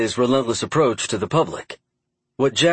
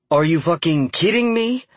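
higher, furious yell; screaming; 7 semitones higher than usual. A narrator's reading. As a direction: scream it in fury. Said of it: "Emma screamed into her phone".

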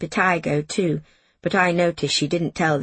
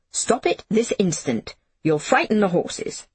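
crisp; 2 semitones higher than usual. Acted. The Iron Woman crisply ordering Jamie to stop. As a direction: clip each word like an order. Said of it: "she said crisply".

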